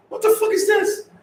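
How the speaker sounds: high squeal of disgust; disgusted shriek. Real, not acted. Streamer shrieking at ugly toes on camera, disgusted. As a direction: shriek it out, grossed out. Repeats the toe shock.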